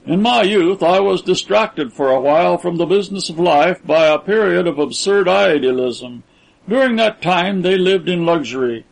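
grand, self-important speechmaking; proud Braddock Washington. Acted. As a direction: declaim your recollection with proud emphasis. Narrator voices proud Braddock Washington.

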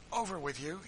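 high, loud call across the chasm; calling out across the rocks. A narrator's reading. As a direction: urge them over the gap. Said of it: "he called".

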